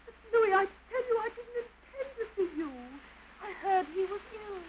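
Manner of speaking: crying, voice high and breaking; tearful pleading. Acted. Wife begging Louis through tears, crying.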